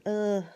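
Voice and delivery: drawn-out ugh of reaction; groaned ugh. Shown as a demonstration. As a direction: let out a groan instead of explaining. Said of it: "explain it other than".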